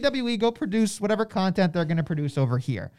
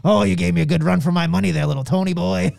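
hammed-up condescending chuckle, louder; mock gloating laugh; 2 semitones lower, 5 dB louder than usual. Imagined Vince mocking Tony on Twitter, gloating laugh. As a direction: laugh it off like a smug boss patting a rival on the head. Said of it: "Vince McMahon's not getting on Twitter and going".

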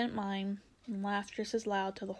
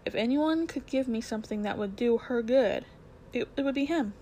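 urgent Diggory; 4 dB louder than usual. Acted. Diggory pleads about his mother.

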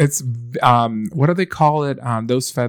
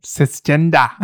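put-on New Zealand accent; 3 semitones higher than usual. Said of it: "New Zealand type accent".

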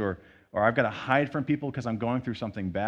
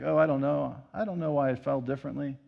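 humble brag; 3 semitones higher, faster than usual. Retold or imitated. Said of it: "the humility brag of just being like".

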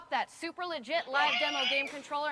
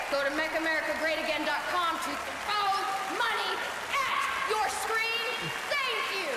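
upbeat promo announcer; ad read; 7 semitones higher than usual. Acted. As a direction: sell it like an ad. Closing ad read.

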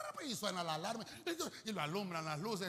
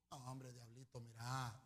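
mock chummy; 6 semitones lower, 6 dB quieter than usual. Mock friendly reply to devil.

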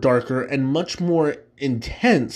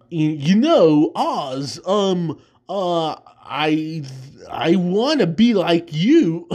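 lightly done Walken, slow halting phrasing; a hint of Walken's odd pauses, drawn out; mild Walken imitation with slow broken rhythm; Christopher Walken impression; 2 semitones higher, much slower than usual. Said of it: "my Christopher Walken imp".

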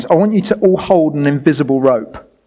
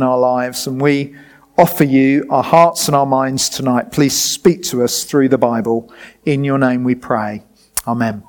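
prayer; 3 semitones lower than usual. Real, not acted. Preacher praying with the congregation before teaching, prayerful. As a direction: pray aloud, settling down to a low amen.

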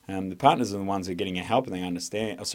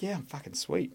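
overexcited; 7 semitones higher, 9 dB quieter than usual. Retold or imitated. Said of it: "I was overexcited, I was overhappy".

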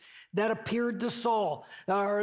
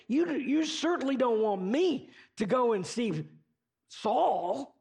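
disbelieving, raised voice, protesting; a hint of casual disbelief; incredulous Ananias; 3 semitones higher than usual. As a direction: push back like he can't believe the request. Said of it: "I'm gonna paraphrase this very liberally".

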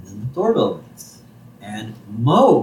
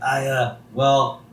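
much higher, louder, panicky Moe; panicked Moe; 7 semitones higher, 4 dB louder than usual. Retold or imitated. Moe caught by Homer, panicked and loud. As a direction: blurt out a guilty denial in a high voice. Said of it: "He's like".

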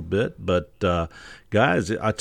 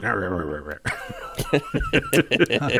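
jeering gibberish grumble breaking into laughter; mock grumbling noise; 7 semitones higher than usual. Host teasing other podcasters about their claims, mock grumbling. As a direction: mimic grumbling rivals, then crack up. Mocking rival podcasters' reaction.

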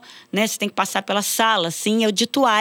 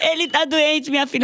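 lightly voiced grandmother; 7 semitones higher than usual. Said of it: "a avó de Juliano me ligando".

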